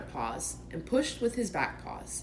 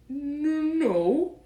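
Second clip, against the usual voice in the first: careless; 8 semitones higher, 5 dB louder than usual. Acted. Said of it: "said Pooh carelessly".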